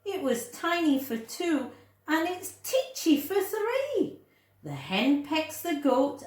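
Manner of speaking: a flustered woman at her wits' end; exasperated cry of an old lady. Acted. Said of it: "The little old lady cried".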